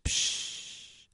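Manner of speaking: soft, drawn-out shush; hushing. Acted. People silence someone with a vision, soft hushing. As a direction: let out a long "psch".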